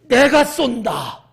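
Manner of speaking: loud, drawn-out bold proclamation; 호기로운 선언. Acted. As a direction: shout it out like a big announcement. Mimics grand offer to pay. (길게 내지르는 호기로운 외침)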